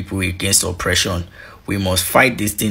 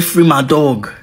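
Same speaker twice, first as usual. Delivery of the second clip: raised voice; 6 semitones higher, 5 dB louder than usual. Retold or imitated. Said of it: "The prosecution said".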